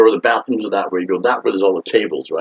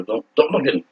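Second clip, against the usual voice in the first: higher, mildly panicked warning; mock a nervous, stammered warning to a friend; retold paranoia; 6 semitones higher than usual. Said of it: "I was all paranoid and scared".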